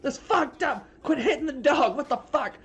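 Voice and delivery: high, loud, put-on protesting voice with a laugh; outraged onlookers. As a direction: yell in disbelief at the belt beating. Onlookers protest dog beating.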